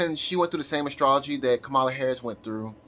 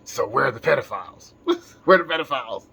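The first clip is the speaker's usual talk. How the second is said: Batman voice; 4 dB louder than usual. Pretend. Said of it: "he's Batman, right?".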